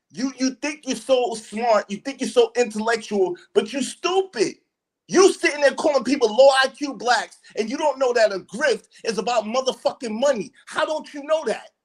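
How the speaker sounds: real heated argument; furious berating. Real, not acted. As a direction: belittle him in real anger, ending in a shout. Berating the man as stupid.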